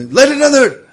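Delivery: high yelled command; screamed order. Acted. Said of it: "I say, I scream".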